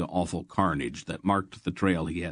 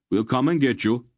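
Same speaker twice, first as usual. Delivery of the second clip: yelling; 5 semitones higher, 4 dB louder than usual. A narrator's reading. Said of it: "Greldick yelled back".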